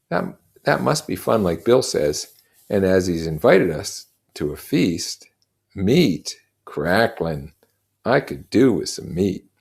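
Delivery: lightly voiced twin longing for meat; twins, hungry. Twin siding with Bill, hungry for meat.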